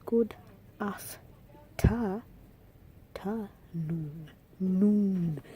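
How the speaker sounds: noon drawn out long and loud at the end; dragged noon. Shown as a demonstration. Teacher showing how Jamaicans stretch the end of afternoon. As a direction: drag the double O in noon. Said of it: "they say".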